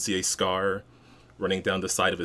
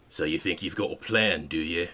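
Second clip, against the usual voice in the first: gruff voice; 3 semitones lower than usual. Acted. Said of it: "you hear a gruff voice".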